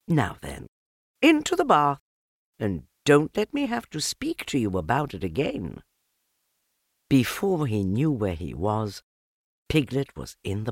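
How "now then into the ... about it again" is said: high firm mother's order; stern mother. A narrator's reading. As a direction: order the child in, no nonsense. Mother ordering child to bath.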